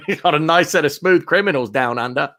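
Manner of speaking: joking, badly faked Australian accent. Host joking about grooming product, bad Australian accent. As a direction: lay on a poor Australian accent. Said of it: "really bad Australian accent".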